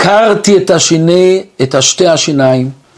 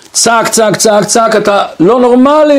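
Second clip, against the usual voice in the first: father yelling; 6 semitones higher than usual. Retold or imitated. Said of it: "הוא צעק עליו".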